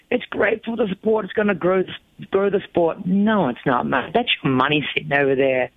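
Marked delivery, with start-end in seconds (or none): 0.1-3.1 higher, parroting sincere slogan; mock earnest riders. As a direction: mimic the naive party line. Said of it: "other riders are going".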